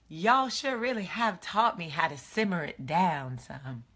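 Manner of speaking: a light, badly faked Southern accent; terrible Southern accent. Vlogger joking about living in the South, hint of bad Southern accent. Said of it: "That was my terrible Southern accent".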